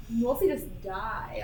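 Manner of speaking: laughing through the words. Real, not acted. Laughing while repeating the poll.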